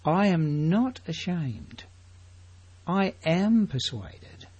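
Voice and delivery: slow and deliberate, every word weighted; Paul's confession, slow. Retold or imitated. Preacher quoting Paul to the congregation, slow and firm. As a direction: declare it slowly, as Paul would. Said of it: "be like Paul".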